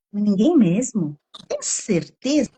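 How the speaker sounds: slow, doubting challenge; coaching a listener to challenge a harsh thought, slow and doubting; gentle challenge. Shown as a demonstration. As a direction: question the thought kindly, slowly. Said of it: "O confronto, assim".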